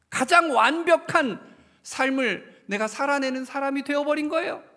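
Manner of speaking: loud rising sermon climax; preaching at full force. Acted. Pastor preaching fervently to his congregation. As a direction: build the sermon to a ringing peak.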